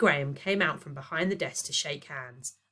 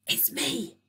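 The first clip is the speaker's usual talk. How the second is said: ordinary delivery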